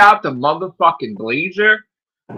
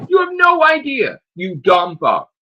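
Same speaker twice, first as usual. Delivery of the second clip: furious yell; 4 semitones higher than usual. Real, not acted. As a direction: scream the insult at the troll. Ranting at an online troll.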